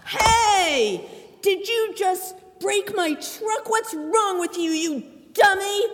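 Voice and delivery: scolding her brother with some force; mock angry scolding. Sister scolding little brother over broken truck, mock angry. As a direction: tell him off for breaking the truck.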